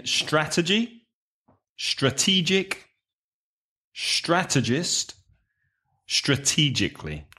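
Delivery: each word set apart, stress marked; teacher repeating the word family; model word list. Shown as a demonstration. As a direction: list Strategy, strategic, strategist, strategically with clear stress. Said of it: "let's repeat these words again".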